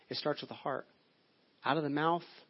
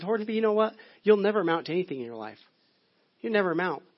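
mildly raised mock exasperation; frustrated teacher; 3 semitones higher, 3 dB louder than usual. Preacher voicing teacher scolding Billy, mildly frustrated. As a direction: imitate a teacher writing off a pupil. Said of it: "she got so frustrated".

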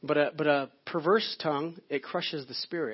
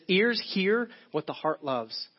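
Ears hear what the heart loves said slowly and evenly; slow quoted saying; 3 semitones higher, slower than usual. Shown as a demonstration. Pastor quoting a proverb to the congregation, slow. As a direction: lay the saying out word by word. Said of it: "there's a saying that says this".

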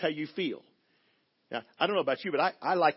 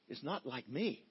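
normal talking voice

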